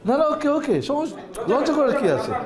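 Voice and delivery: high, bright coaxing reassurance; encouraging coax. Real, not acted. Teacher coaxing a shy student to recite, high and encouraging.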